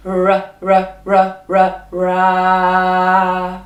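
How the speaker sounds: repeated r from the back of the mouth, then ra; rolled back r. Shown as a demonstration. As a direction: growl r r r into ra. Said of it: "And again".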